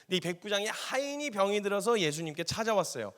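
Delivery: ordinary talk, nothing marked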